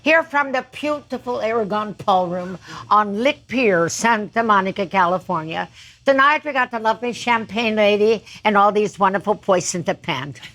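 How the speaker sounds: lightly imitated a bandleader, every B said as a P; a touch of the bandleader's German accent, B turned into P; a bandleader's accent. Singer mimics the bandleader's TV welcome, light German accent. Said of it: "Every B was a P".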